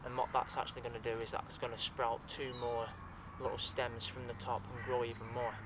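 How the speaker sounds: talking while chewing a leaf; words round a mouthful; mouth full. Real, not acted. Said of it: "I'm swallowing this now".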